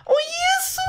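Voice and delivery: high squealing O Jezu; delighted squeal. Real, not acted. Player sees the cute baby and squeals.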